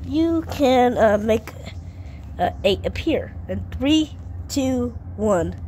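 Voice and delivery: hyped-up countdown; kids party magician. Acted. Hyping countdown to fans.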